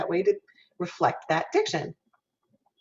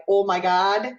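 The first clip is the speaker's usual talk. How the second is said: Minnesota-style "Oh" without a glide, louder; Minnesota accent, pure O; 2 semitones higher, 5 dB louder than usual. Shown as a demonstration. Teacher recalling the dialect example, Minnesota accent. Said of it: "the very pure O".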